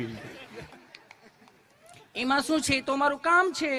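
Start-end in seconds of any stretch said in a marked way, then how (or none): 2.1-3.7 lightly voiced nurse, gentle and higher; a nurse asking sweetly, lightly played; lovingly asking nurse. Comic nurse gently asks the nervous patient, mildly higher voice. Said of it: "nurse બેને પ્રેમથી પૂછ્યું".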